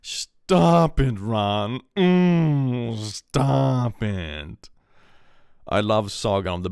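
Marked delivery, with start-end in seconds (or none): 0.0-4.7 hammed-up high squeaky cartoon parody; overacted fan-animation character voice; Harry Potter parody voices. Imitating an old YouTube Harry Potter parody with squeaky voices. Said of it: "old YouTube animations where it's like".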